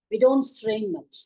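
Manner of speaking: slow and easy, no strain; slow explanation. Shown as a demonstration. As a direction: say it slowly, relaxed. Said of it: "கொஞ்சமா தான்".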